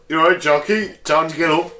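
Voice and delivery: lightly voiced butler robot waking someone. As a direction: play a chirpy wake-up robot butler. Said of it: "I'm your butler robot now".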